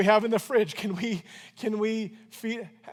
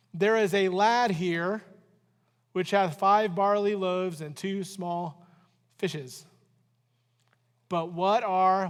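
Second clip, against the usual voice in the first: slow, measured Bible reading; reading the verse aloud to the church, slow and measured; scripture reading; slower than usual. Acted. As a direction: read the verse slowly and deliberately.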